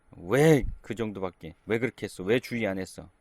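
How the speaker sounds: father scolding his injured son, mildly; imitated scolding. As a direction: play the scolding parent. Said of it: "라고 혼내기보다는".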